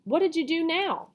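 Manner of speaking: loud, cross question; cross witch. A narrator's reading. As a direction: snap at him, irritated. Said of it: "The witch was cross".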